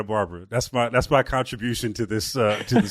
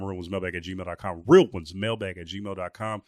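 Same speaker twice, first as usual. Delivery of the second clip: slowed right down, each word of the email clear; slow, spelled-out repeat; much slower than usual. Shown as a demonstration. Host repeating the show email slowly so listeners catch it.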